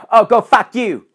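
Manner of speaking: hammed-up furious retort; imitating angry yell. Quarrelling moviegoer snaps back.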